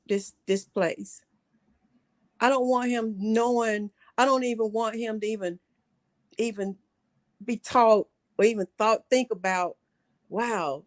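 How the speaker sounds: holding back tears while pleading; choked-up, heartfelt plea; getting emotional. Real, not acted. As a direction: voice thick with real feeling over the grandson. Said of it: "I'm getting em-, emotional".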